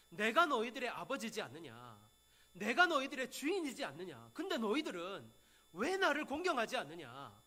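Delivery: mildly acted divine scolding; imitated rebuke. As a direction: put a touch of reproach into the questions. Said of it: "이렇게 지금 꾸짖고 있는 거예요". (꾸짖듯 따져 묻는 말투로)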